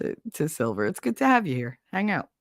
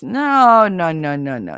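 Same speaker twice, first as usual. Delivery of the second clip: emphatic no; 6 dB louder, slower than usual. Real, not acted. Emphatic refusal of flowers.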